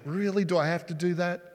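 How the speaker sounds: mock grudging clerk, dragging her feet; lazy reluctance. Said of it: "A bare minimum kind of attitude".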